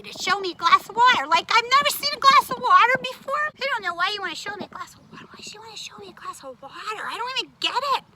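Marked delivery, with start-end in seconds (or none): 1.3-8.0 snippy mocking tone, higher; rude tone. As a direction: scoff at the silly glass. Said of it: "You have to watch your tone".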